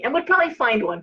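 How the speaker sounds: ordinary delivery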